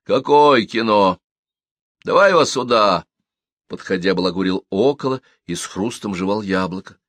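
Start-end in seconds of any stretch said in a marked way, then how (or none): 0.0-3.0 calling out. Acted. Парень кричит издали.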